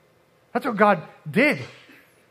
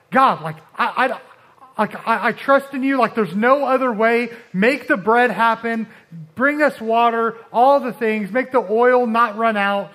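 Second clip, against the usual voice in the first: pleading prayer; 2 semitones higher, 4 dB louder than usual. Acted. Voicing a desperate believer praying.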